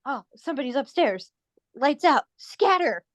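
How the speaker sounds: a hint of a hero barking orders; hammed-up superhero command; mock Batman. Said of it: "And then Batman goes".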